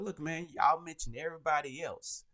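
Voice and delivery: play-complain about being left out; mock complaint. Host retelling a comedian's joke about being left out, mock complaint. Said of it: "he was just joking".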